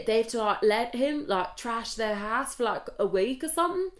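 rambling mock English accent; hesitant English-accented show pitch, slightly wobbly imitation; put-on English accent. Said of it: "my accent is gone fucking crazy".

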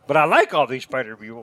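mocking Brad. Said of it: "now here you're saying".

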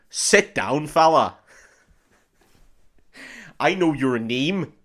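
emphatic, slow mock Irish; Irish accent. Shown as a demonstration. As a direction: put on a hammed-up Irish accent. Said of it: "for Irish".

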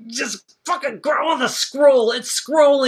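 high, loud excited fan shouts; giddy excitement. Retold or imitated. Fan watching the scroll begin, high excited shouting. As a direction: squeal with fan glee. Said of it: "and I'm like".

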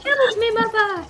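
high, overwrought mock tragic cry; hammy stage actor. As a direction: ham up a melodramatic dying son. Player adds a mock tragic death line.

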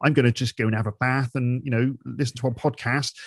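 lightly put-on regional British accent; casual regional British speech, lightly imitated; lazy regional accent. Someone on the BBC speaking casually, lightly regional accent. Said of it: "that was considered lazy speaking".

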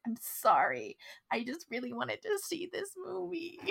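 small, high, soft plea; pleading apology. Retold or imitated. Mimics pleading apology to mom.

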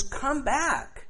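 high, gentle call home; tender call. Retold or imitated. Preacher voicing the Lord calling the sinner back, high and gentle. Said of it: "the Lord says".

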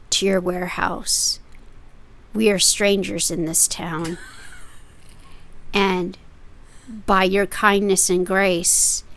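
mock formal flatterer; flowery monologue. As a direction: lay the flattery on thick like a stage speech. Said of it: "ad lib this monologue".

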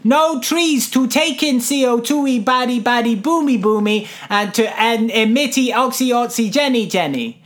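lightly played teacher dumbing it down; talking down to a child. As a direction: explain it like to a little kid, word by word. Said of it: "I am not a child".

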